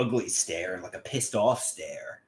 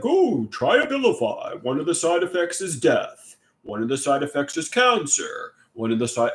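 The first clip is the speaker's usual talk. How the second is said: mock drug ad; 3 semitones higher than usual. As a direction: ham up a cheery pitchman. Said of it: "drug advertisements for, like, you know, Abilify".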